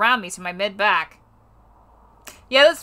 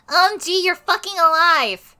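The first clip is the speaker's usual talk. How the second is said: excited; 8 semitones higher, 3 dB louder than usual. Acted. Friend's excited greeting.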